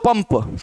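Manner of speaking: पंप with the nasal said as a full म; m sound. Shown as a demonstration. Teacher having students listen for the nasal, m in पंप. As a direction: close the lips on the m in पंप. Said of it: "किसका उच्चारण हो रहा है".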